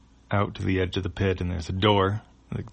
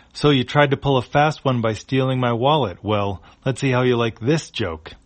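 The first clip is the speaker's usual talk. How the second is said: alien voice; 5 semitones higher, 7 dB louder than usual. Acted. Alien confronting the crew.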